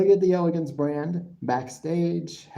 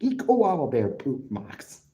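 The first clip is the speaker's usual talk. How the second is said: mock Australian accent. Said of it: "I'm doing an impression of him".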